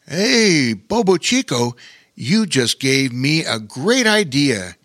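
light up with an idea; excited. Acted. Bear King tells the otter his idea, excited. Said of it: "he said excitedly".

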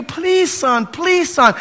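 God pleading. Retold or imitated. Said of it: "He's pleading with you".

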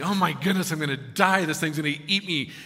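loud, mock-panicked outburst; hammed-up fright; scared burglar. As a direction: play a burglar fearing for his life. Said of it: "he's scared to death".

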